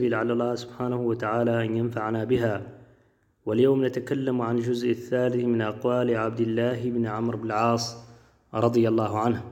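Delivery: measured classical Arabic recitation; formal religious address, steady and even; formal standard arabic. Acted. Opening of a religious talk. (فصحى رسمية بنبرة خطابية)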